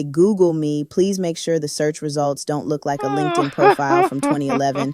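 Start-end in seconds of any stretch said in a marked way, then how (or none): 0.0-0.8 "Google me" thrown back louder and mocking; mocking echo. Mocking the cast member's brag "Google me", louder. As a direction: punch "Google me" like a sassy callback. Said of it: "Sis, when you say".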